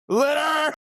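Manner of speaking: high, loud squealed cat cry. Pretend. Joking about the cat on the podcast, high squealed cat cry. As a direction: squeal it like a cat demanding its litter. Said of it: "The cat shows up and he says".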